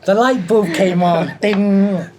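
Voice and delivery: laughing. Real, not acted. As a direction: laugh through the punchline.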